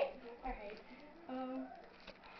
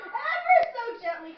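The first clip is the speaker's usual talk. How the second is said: theatrical hush; 10 semitones higher, 10 dB louder than usual. Acted. Dramatic slow unveiling.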